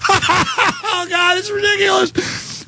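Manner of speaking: high, squealing laugh-talk; imitating a laughing reporter. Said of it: "they're just like".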